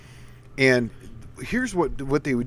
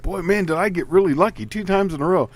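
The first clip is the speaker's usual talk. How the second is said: mock amazement; 5 semitones higher, 4 dB louder than usual. Acted race hustler's feigned luck.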